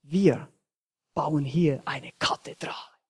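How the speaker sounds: a touch of quiet pride in the retold mason; proud. Second mason proudly telling the passerby, lightly voiced. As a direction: say it like a proud builder, softly. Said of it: "sagt ganz stolz".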